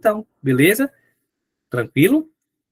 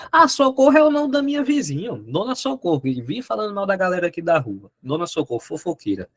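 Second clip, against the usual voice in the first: gossipy neighbor talk. Retold or imitated. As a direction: imitate someone gossiping about the neighbor. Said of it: "eu achei que". (imitando fofoca sobre a vizinha)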